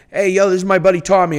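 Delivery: quick, lightly Boston-flavored intro; a hint of a Boston guy introducing his buddy Tommy; Boston accent. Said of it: "That was very Boston of you".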